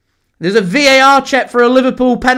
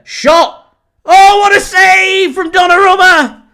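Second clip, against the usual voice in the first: high, loud burst of amazement; excited shout; 9 semitones higher, 5 dB louder than usual. Real, not acted. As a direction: yell it out, stunned by the save. Stunning save in the match.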